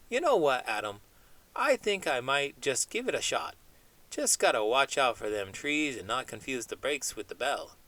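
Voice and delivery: chatty cartoon chimp dreaming big, not far from own voice; lightly voiced chimp. Chimp puppet chats with host.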